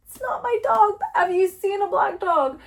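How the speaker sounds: high-pitched retold plea to strangers; exasperated calling out. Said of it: "I'm not yelling, but I'm like".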